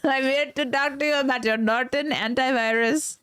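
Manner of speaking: mock Indian tech-support pitch; put-on Indian accent, scam caller reciting the offer; hammed-up Indian phone agent; stereotypical Indian accent. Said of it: "worst fucking Indian accent".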